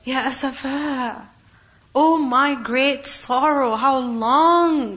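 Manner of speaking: "Ya asafa" slow and drawn out, a mournful sigh; sorrowful lament. Shown as a demonstration. Teacher shows the expressive lament, slow and mournful. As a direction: let the grief stretch out "Ya asafa". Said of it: "What is more expressive?".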